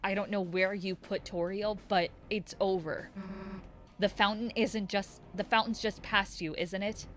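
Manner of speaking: tough taunting rival. Acted. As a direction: sneer at the cornered enemy. Reads villain dialogue aloud.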